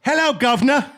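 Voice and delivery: hammed-up "governor" commoner voice; royal subject. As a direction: play a chirpy subject greeting the king. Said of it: "and you're a subject".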